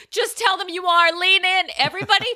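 high, loud mock shout; retold hollered advice; emphatic urging. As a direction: urge it at full volume. Acts friend urging her, then exclaims.

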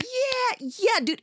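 high, jeering mimic of a bystander; mock bro taunt; mocking the racists. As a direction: sneer it back like the heckler. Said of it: "They were like".

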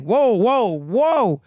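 retold startled protest. Startled as bag gets thrown.

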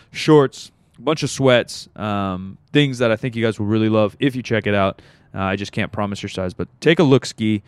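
upbeat sponsor announcement; ad read. Acted. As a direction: read it like a podcast ad.

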